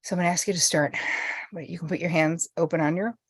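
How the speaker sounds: soft, settling meditation voice; unhurried, hushed guidance with pauses; guided meditation lead-in. Real, not acted. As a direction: ease listeners gently into calm.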